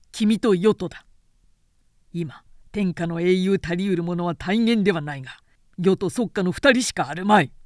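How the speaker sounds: loud, commanding proclamation; proud declaration. Acted. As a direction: announce it like a verdict. Cao Cao names two heroes.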